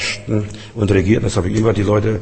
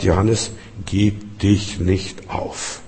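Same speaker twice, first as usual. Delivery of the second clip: tender Jesus voice; 2 semitones lower, 6 dB quieter, much slower than usual. Acted. Preacher voices Jesus speaking tenderly.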